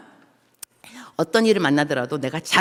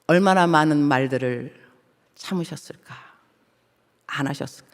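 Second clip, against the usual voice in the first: tearful hush; 4 semitones lower than usual. Real, not acted. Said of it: "많이 울었습니다".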